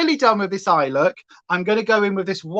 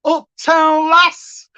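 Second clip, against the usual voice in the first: excited shout; 8 semitones higher, 5 dB louder, much slower than usual. Real, not acted. Repeating pun, excited.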